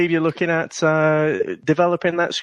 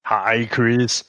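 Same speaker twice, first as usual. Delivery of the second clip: a slow, lightly voiced Mr. Freeze pun; mock villain greeting, drawn out slowly; Mr. Freeze impression; slower than usual. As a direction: drag out the icy pun slowly. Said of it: "She has one-upped me".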